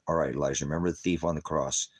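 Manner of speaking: calm him like a father would; gentle reassurance. Retold or imitated. Father comforting son on phone.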